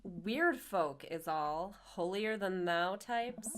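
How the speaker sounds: slow, lightly voiced scorn; a hint of a jaded wife, drawn out; mild disdain. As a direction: take your time with a slight sneer. Acting Mary sneering at churchgoers.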